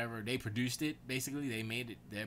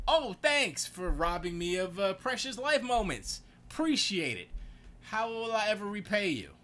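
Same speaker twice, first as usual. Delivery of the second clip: sarcastic thanks; 10 semitones higher, 7 dB louder than usual. Retold or imitated. Thanking spouse for robbing life moments, bitterly sarcastic. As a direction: lay the sarcasm on thick.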